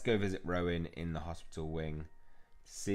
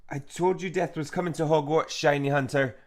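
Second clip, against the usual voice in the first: loud, raised ominous proclamation; possessed villain; 8 semitones higher, 9 dB louder than usual. Acted. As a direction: proclaim doom like a game villain. Voices the possessed character's threat.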